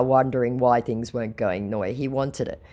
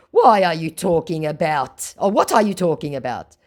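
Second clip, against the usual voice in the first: mock scammer; 5 semitones higher, 6 dB louder than usual. Scammer quoted, mock confusion.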